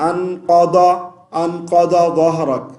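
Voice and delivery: انقض with ض said as a plain d; the wrong reading with a d sound; d-sound mistake. Shown as a demonstration. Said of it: "دال بھی نہیں پڑھنا".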